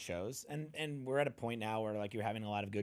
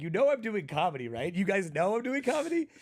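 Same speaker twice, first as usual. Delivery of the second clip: rising disbelief, louder and higher on each line; pleading with the silent crowd; incredulous plea to the crowd; 8 semitones higher, 7 dB louder than usual. Retold or imitated. Comic to the stenographers, pleading and disbelieving. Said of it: "I'm like".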